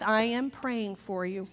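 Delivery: slow, measured pious assurance; putting on a sanctimonious promise; mock piety. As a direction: lay on the churchy sincerity. Mocking pious excuse to Beth.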